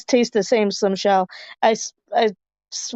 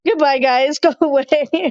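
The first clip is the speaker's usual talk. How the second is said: mock shooing; 4 semitones higher than usual. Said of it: "She's like".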